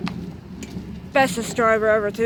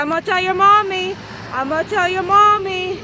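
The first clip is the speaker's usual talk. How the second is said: taunting; 5 semitones higher than usual. Retold or imitated. Threatening to tell the kid's mom.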